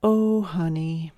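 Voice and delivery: slow, gentle "Oh, honey"; soft conciliatory. Shown as a demonstration. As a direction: comfort her softly, drawing it out. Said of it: "a tone of voice that is soft and slightly conciliatory".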